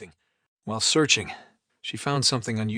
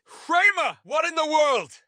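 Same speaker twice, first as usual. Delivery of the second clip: startled; 6 dB louder, slower than usual. Acted. Elaine startled by mess.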